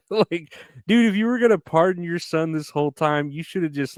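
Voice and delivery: exasperated. Real, not acted. Exasperated rant at Biden.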